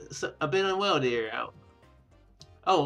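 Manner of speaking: ordinary talk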